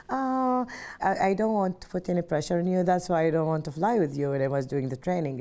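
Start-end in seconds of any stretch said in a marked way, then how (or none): 0.1-4.3 much higher, louder, fast mock anxious mother; imitating a mother too nervous to fly; imitating worried mom. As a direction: play the fretting mom, hands up in worry. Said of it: "she was like".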